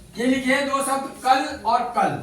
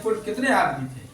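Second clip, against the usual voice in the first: Gabbar quote; 3 semitones lower than usual. Retold or imitated. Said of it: "Sholay film में कहता है वो".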